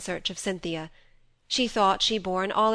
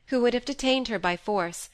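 usual speaking voice

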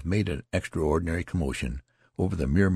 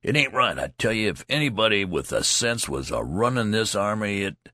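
higher, heated grumble; indignant griping; 3 semitones higher than usual. Acted. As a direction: rant at the army until cut off. Loud soldier griping.

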